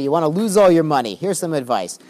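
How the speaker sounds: sarcastic rabbi giving mock advice to a rich heir. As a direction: dangle the bad advice with a sarcastic edge. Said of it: "And he says sarcastically".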